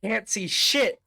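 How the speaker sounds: high, loud complaint; exasperated shout. Acted. Mikey shouts back to Leo in the dark, exasperated.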